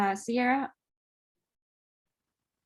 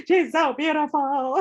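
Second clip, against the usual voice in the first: higher, hushed awe of a new dad; imitating awed husband; 6 semitones higher, 4 dB louder than usual. Friend imitates the husband seeing his daughter, awed. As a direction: echo the husband, overwhelmed by his baby.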